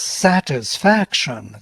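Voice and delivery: "satisfaction" slowly, leaning on its accented syllables; slow demonstration of the accent in "satisfaction"; stressed syllables drawn out. Shown as a demonstration. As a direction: spell out the accentuation of "satisfaction", unhurried. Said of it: "this particular accentuation".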